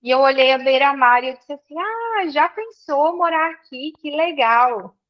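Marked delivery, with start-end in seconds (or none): 1.8-5.0 high dreamy "ah" settling down; mild wonder, starting high-pitched; retold delighted wonder. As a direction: relive a happy first impression, lightly. Recalls own delighted reaction to the seaside.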